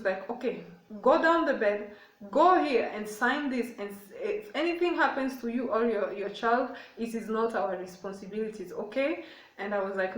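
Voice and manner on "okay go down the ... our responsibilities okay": very direct. Retold or imitated. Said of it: "She was very direct".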